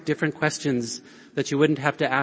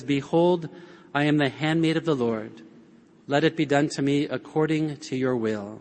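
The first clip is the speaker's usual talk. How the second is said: soft, humble Mary, gently bowing in; hushed and lowly, like a servant's answer; humble quiet prayer. Retold or imitated. Preacher voicing Mary's humble answer to the angel, softly. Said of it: "She kinda leans in humbly and says".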